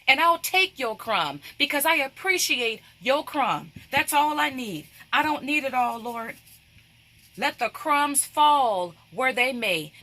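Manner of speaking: lightly acted impassioned plea to the Lord; humble but insistent appeal; pleading woman. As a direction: plead earnestly in the woman's voice, stressing each point. Voices the woman pleading with Jesus.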